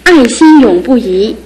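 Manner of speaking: slow, savoring recitation of headline phrases; slow poetic recital. Acted. Sister reads the wedding headlines aloud, slow and poetic. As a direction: let each phrase hang like a line of verse.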